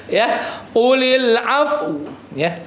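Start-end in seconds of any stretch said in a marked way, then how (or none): 0.7-1.9 Qulil af- with lips pushed forward, slow; lips pursed. Shown as a demonstration. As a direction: round the lips into a pout on af-. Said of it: "Jangan ragu-ragu monyong".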